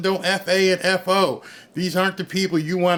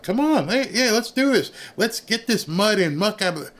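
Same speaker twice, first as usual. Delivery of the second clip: higher, chirpy fake enthusiasm; mock eager worker; 6 semitones higher than usual. Mocking a government helper, he chirps eager and high. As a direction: play a gung-ho helper who fizzles.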